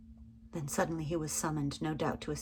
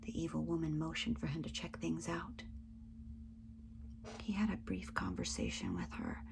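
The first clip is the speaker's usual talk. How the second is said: softer, secretive whisper; hushed whisper; 7 dB quieter than usual. A narrator's reading. Narrator hiding in the shadows, in a hushed whisper. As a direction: hold your breath and whisper it.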